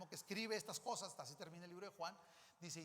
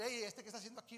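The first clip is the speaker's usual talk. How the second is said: Hey, ¿este qué está haciendo aquí? as a mild irritated challenge; annoyed challenge; 2 semitones higher, 4 dB louder, faster than usual. Shown as a demonstration. The wrong reading, an annoyed Peter. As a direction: snap Hey at the intruder. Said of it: "No es como decir".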